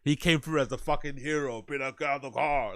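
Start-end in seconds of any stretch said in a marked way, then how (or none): 2.0-2.8 Batman impression. Reactor mocking the storyteller as hero, Batman voice. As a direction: do a mock Batman. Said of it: "like fucking Batman".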